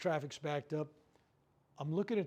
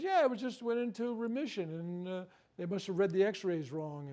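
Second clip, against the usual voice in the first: imitating his daughter; 4 semitones higher, 4 dB louder than usual. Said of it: "She says".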